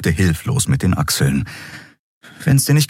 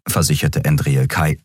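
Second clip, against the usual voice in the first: plain reading voice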